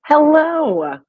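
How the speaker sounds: booming echoed hello; cave echo. Pretend. Mic check hello echoing.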